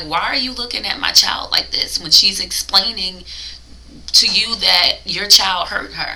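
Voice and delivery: ordinary talk, nothing marked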